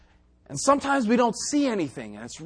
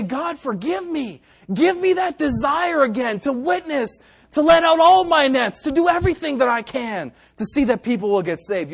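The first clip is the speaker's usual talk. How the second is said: higher, mounting plea; earnest prayer; 5 semitones higher, 3 dB louder than usual. Acted. Sinner at the altar begging God, earnest plea. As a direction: pray it pleadingly, building in force. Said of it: "come to the Lord and say".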